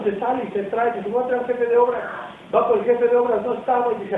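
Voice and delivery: ordinary talk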